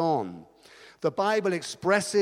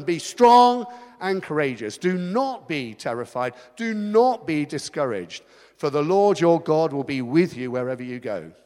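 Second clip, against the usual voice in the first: proclaiming God's words; 4 dB louder than usual. Retold or imitated. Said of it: "God said to Joshua".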